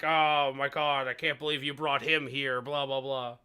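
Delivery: low, mock grumble; grumbling crowd. Game master voicing kings grumbling across the tables, mild grumble. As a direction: grumble it under the chatter. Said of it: "Everyone grumbles".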